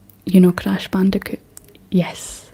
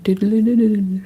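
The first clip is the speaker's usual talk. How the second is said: imitating bus horn; 2 semitones higher than usual. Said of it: "And it's like".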